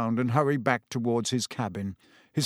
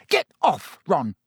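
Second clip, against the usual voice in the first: sharp shout; 2 semitones higher, 4 dB louder than usual. Acted. Hermione shakes Ron off.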